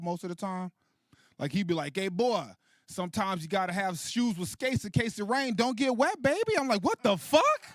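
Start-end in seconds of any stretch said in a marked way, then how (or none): 1.9-6.6 seventies pimp. Acted. Pimp dad dropping wisdom on his son, seventies pimp talk. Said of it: "seventies pimp dialogue". 6.8-7.6 very high incredulous yelp; baffled outrage. Acted. Son hearing dad's odd advice, baffled outrage.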